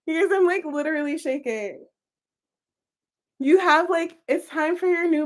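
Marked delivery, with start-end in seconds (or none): 0.1-1.9 shaken up. Real, not acted.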